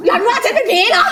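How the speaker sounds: high, loud, laughing outrage; mock-offended, laughing yell; laughing indignation. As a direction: shriek it through laughter.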